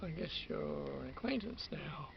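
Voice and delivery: slow, whispered aside; whispered dry aside to the vanished friend; wry whisper. Retold or imitated. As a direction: breathe it out, wryly resigned. Muttered after friend left.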